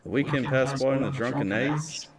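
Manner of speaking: put-on a light Irish accent, telling a tale. Reading his story to stream chat in an Irish accent. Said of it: "We'll do the Irish accent".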